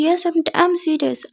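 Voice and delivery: dragged out and emphatic; slow, firm insistence. Acted. Aadiya insists to Muskan she is serious, slow and emphatic. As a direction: say it slowly to prove you mean it.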